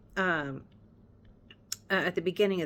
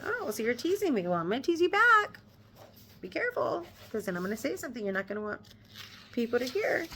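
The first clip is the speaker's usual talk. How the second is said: teasing Elizabeth; 4 semitones higher, faster than usual. Retold or imitated. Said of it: "She's like".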